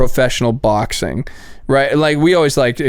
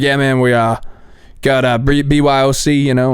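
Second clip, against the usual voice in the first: lightly imitated Midwestern drawl; a hint of Midwestern drawl, halting. Promoter pitching a bring-your-own show, lightly imitated Midwestern drawl. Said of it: "He sounds like this".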